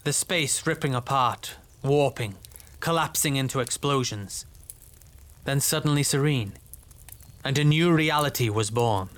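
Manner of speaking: distant voice. Acted. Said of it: "as though coming from far away".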